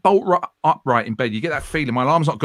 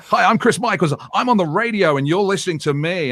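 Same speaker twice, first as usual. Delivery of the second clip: lightly hammed-up radio intro; a hint of a polished presenter introducing himself; mock DJ persona; 4 semitones higher than usual. Host retells practising his new DJ name, mild mock presenter voice. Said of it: "so I'm doing all this".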